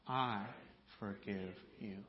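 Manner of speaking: whisper-close, gentle release; soft forgiveness. Shown as a demonstration. Pastor praying the words with the congregation, hushed. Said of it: "Say it with me".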